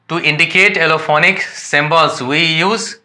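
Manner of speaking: reading English textbook lines slowly and deliberately; careful dictation pace for students; slow read-aloud definition. Shown as a demonstration. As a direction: dictate it word by word to the class.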